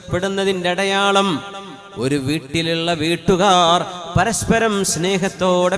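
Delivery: loud, high, impassioned sermon voice; fervent Friday preaching; full-force preaching. Acted. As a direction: preach it out to the whole hall.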